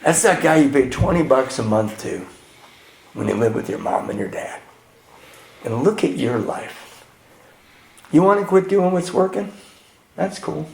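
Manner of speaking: soft, unimpressed deadpan sponsor; imitating cool sponsor. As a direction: play it cool and understated, letting it sink in. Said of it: "my sponsor's so cool".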